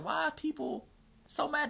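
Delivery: mock bewildered. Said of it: "I'm like".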